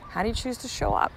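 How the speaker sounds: a gentle nudge of a question. Shown as a demonstration.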